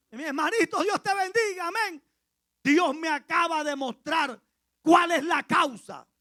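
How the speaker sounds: phoning a brother at dawn, excited and loud; excited urgent call. Retold or imitated. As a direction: burst in with the news, loud. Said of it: "calling brother at dawn".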